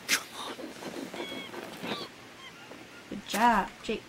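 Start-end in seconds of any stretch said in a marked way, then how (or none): 0.1-2.0 coaxing pet voice. Real, not acted. Coaxing pet Jake, high voice.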